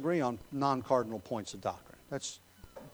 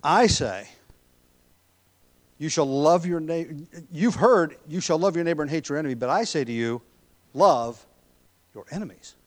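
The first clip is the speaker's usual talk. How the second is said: louder, urgent preaching of Jesus' command; forceful proclamation; 3 semitones higher, 7 dB louder than usual. Acted. Preacher proclaiming "love your enemies" to the church, forceful and loud. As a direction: drive the words home to the hearers.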